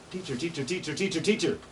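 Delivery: high chanted teacher call; imitating ovenbird. Shown as a demonstration. Teacher mimics ovenbird call for students, high chant. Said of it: "hear it saying".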